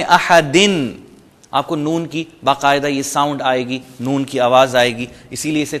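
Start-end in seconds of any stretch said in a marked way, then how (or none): 0.0-0.9 احدن said ahadin; nunation with in. Shown as a demonstration. Teacher showing double kasra with its n. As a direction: finish on a clear in. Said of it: "زیر لگا دیں".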